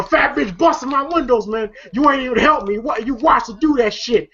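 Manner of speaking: high, heated ranting complaint; angry rant. Retold or imitated. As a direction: rant it out, rising to a shout. Day Day ranting about windows.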